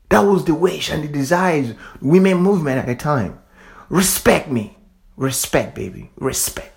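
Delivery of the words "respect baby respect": fading to a whisper. Real, not acted. Softening repeated word to a whisper.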